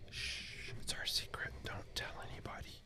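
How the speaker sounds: secretive whisper. Pretend. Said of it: "I'm not gonna tell if you guys don't tell".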